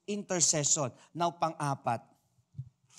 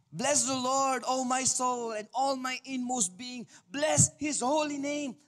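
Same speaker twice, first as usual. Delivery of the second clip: high, raised praise reading of scripture; exultant scripture recitation; psalm recitation; 8 semitones higher than usual. Shown as a demonstration. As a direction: proclaim it like a worship reading.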